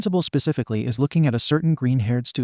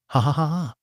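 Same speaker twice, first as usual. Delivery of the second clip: a gloating cartoon cackle; mocking laugh; 3 semitones higher than usual. Bakugo laughing at the pranked Izuku, gloating. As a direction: laugh at him like you just won.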